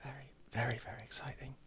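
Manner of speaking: whispered, very soft echo; barely voiced, savouring the excitement; hushed excitement. Real, not acted. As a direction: breathe it out in a whisper.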